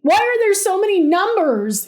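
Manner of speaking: loud, high, frantic complaint; yelled. A narrator's reading. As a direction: yell it in a panic. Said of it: "he yelled".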